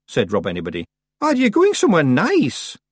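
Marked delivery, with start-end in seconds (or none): 1.2-2.8 high, loud Scottish pixie; chirpy wee Scottish Feegle. A narrator's reading. Feegle cheerful question.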